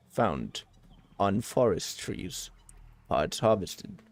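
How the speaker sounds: low, measured robot reading aloud; put-on low robot voice. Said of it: "Should I try again, robot, robot voice?".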